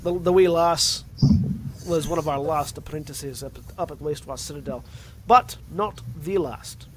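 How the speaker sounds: Scottish veteran recounting a betrayal; Scottish accent. Acted. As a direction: tell the tale in a Scottish accent. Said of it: "going from Scottish to Russian".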